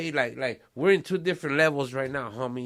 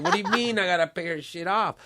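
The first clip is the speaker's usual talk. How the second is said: laughing; 4 semitones higher, 5 dB louder than usual. Real, not acted. Mock outrage at paying debt.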